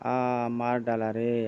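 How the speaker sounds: slow, drawn-out wail of someone struck; lightly hammed-up groan of pain; acted pained groan. Struck villain cries out in pain.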